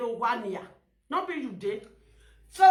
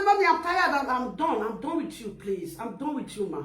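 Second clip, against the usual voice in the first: weary plea; 3 semitones lower, 3 dB quieter than usual. Retold or imitated. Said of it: "look at what I say".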